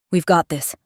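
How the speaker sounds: firm, unwavering declaration; firm conviction. Acted. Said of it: "her tone firm and unwavering".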